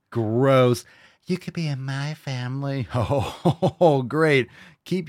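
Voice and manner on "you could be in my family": a touch of mock breathy creep; mimicking soft creepy voice. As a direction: echo his line in a lightly mocking soft voice. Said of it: "why do you have to talk like that".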